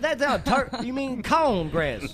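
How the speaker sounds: high, loud redneck retort; redneck friend. Acted. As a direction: correct him like an insistent redneck. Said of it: "my redneck friend".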